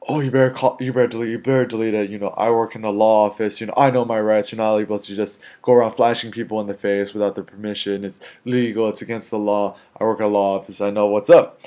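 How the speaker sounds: mildly heated mock tirade; retold aggressive rant. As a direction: imitate an aggressive woman asserting her rights. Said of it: "She started getting really aggressive".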